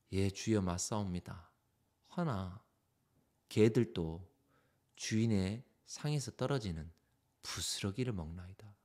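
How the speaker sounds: low, hushed, halting reply; humble submission. Acted. Gentile woman answering the Lord who turned her away, humbly hushed. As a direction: agree meekly, phrase by phrase, softly.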